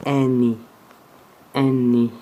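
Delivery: Eni, spelled out like a teacher; letter name Eni. Shown as a demonstration. Teacher telling students the letter name, clear demo.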